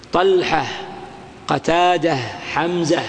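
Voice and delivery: "طلحة، قتادة، حمزة" each ending in -ah; pause on ha. Shown as a demonstration. Teacher listing names stopped on ha, final h. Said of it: "هذه كلها تقف إيش".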